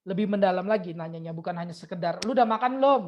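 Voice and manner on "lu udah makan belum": louder, higher mum calling out; a light imitation of a nagging mum. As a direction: ask like a mother checking on her kid. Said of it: "kayak emak kita".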